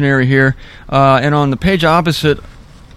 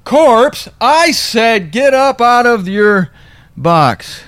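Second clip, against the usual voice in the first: high, slow, hammed-up faith healer; mock commanding preacher; 7 semitones higher, slower than usual. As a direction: ham up a preacher commanding the dead. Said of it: "refused to cooperate".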